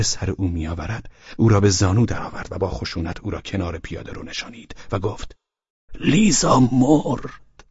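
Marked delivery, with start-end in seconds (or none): 5.9-7.6 grave announcement. A narrator's reading. Grave news told to drunk father.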